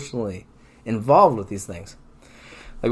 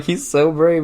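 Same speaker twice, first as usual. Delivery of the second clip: laughing mock praise; 5 semitones higher, 4 dB louder, slower than usual. Mocking parents, laughing.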